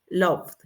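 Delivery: LOVED in one syllable, V plus D. Shown as a demonstration. Teacher modelling the past, -ed as D. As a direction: close LOVED on D without a vowel. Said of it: "va a ser con D".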